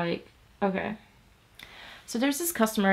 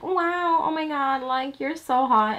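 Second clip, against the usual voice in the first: put-on creepy old man; 5 semitones higher, 3 dB louder than usual. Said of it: "they're all like".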